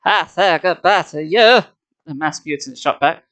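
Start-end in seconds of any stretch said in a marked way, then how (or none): 0.0-1.6 slow, louder villain spitting words; spitting angrily. A narrator's reading. The mutant shoots back at the hero, spitting angrily. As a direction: spit each word at him. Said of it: "spitting the words angrily".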